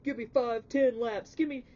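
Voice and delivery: loud, high-pitched mock command; drill sergeant orders. Reader mimics someone ordering laps and push-ups, barking orders. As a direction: order them about like a coach at practice. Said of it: "don't think I'm picking on you about saying".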